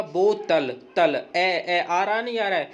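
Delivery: बोतल said slowly, the last syllable तल drawn out; ending sound shown. Shown as a demonstration. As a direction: stretch तल and hold the ए sound. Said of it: "देखो जब तुम बोतल बोलोगे तो बाद में ए". (अंतिम ध्वनि पर ज़ोर देकर बोतल)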